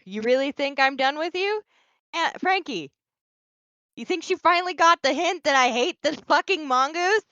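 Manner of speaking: high-pitched incredulous questioning, rising at the end; fed-up rhetorical questions, pitched high; exasperated. Real, not acted. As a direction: push the pitch way up in exasperated disbelief. Exasperated outburst after being called done.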